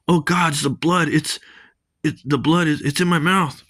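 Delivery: hammed-up panic about the blood; disgusted panic. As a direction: recoil in mock horror.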